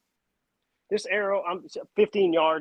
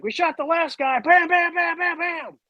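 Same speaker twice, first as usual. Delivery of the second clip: mock threat with gunshots; 14 semitones higher, 3 dB louder than usual. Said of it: "he was like".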